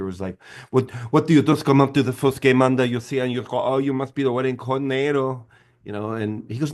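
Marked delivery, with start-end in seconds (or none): 0.7-5.4 lightly voiced flamboyant Hispanic guy, a bit higher; Hispanic gay character. Wedding coordinator snaps at Ben Stiller, lightly put-on voice. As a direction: camp it up as a sassy Hispanic wedding planner. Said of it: "So I do this Hispanic gay character".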